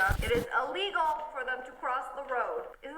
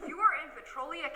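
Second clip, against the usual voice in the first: normal talking voice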